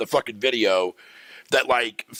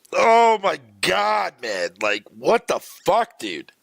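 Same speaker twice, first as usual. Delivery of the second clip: slow, louder drawn-out disbelief; exasperated; 3 dB louder, slower than usual. Real, not acted. Streamer to chat about shilling creators, slow exasperated groan of disbelief. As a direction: stretch it out like you can't believe it.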